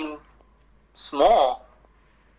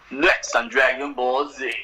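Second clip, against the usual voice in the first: slow whispered take on the TV preview announcer; mock preview announcer; slower than usual. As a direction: breathe the show's preview line like a hushed mock announcer. Imitates the show's episode preview.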